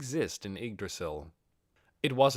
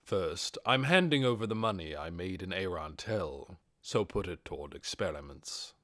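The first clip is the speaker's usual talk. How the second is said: lightly lowered Ainz; 4 semitones lower than usual. Acted.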